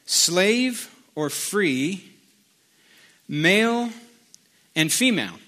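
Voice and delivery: deliberate reading with weighty pauses; measured, spaced-out Bible reading; scripture reading. Acted. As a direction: read it out to the congregation phrase by phrase. Reads scripture aloud.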